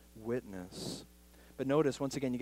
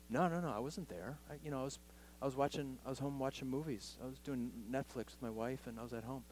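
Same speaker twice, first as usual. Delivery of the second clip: sheepish denial; 5 dB quieter, faster than usual. Retold or imitated. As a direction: play Peter squirming out of it quietly. Peter denying, voiced quietly.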